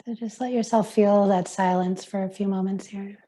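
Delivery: unhurried meditation guide, long pauses; guided meditation. Acted. Yoga teacher easing class into silence, guided meditation voice. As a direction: guide them into stillness, leaving space between phrases.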